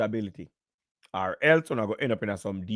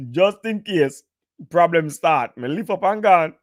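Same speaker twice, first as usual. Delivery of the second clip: higher, laughing through the punchline; laughing repeat; 4 semitones higher, 3 dB louder, slower than usual. Real, not acted. To the stream viewers, repeating the escape joke while laughing.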